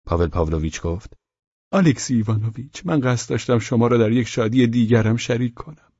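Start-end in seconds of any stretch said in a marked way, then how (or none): 1.7-5.9 lightly raised character voice; Pavel Pavlovich. Acted. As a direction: announce it in an eager, slightly high voice. Pavel addresses Velchaninov. (صدای کمی زیر شخصیت، مشتاقانه)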